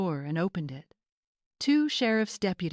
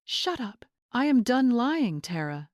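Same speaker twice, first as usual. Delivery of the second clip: shouting back; 6 semitones higher, 4 dB louder than usual. A narrator's reading. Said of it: "Jason shouted back".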